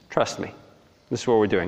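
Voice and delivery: lightly voiced, unruffled God; understated calm insistence; God reassuring. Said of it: "And God says".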